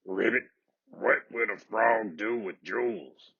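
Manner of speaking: a shy little frog asking softly; timid scratchy frog. A narrator's reading. Storyteller voicing the frog to the crying princess, timid and scratchy. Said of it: "he wondered".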